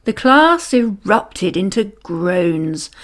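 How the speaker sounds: plain reading voice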